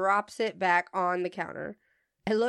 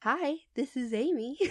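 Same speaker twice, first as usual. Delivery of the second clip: perky retail phone voice; bright, helpful shop greeting; customer service voice; 4 semitones higher than usual. Shown as a demonstration. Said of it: "the customer service voice".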